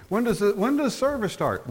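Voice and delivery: inquiring visitor. Acted. Visitor asking about church service times, inquiring. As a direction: ask it high, expecting a set time.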